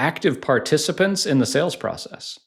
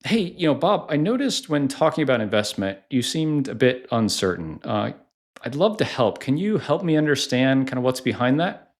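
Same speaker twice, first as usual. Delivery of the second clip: concerned friend tone. Shown as a demonstration. Sales coach demos a rep gently asking prospect Bob, concerned friend. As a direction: ask like you're helping a friend who's upset. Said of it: "a concerned friend kind of tone".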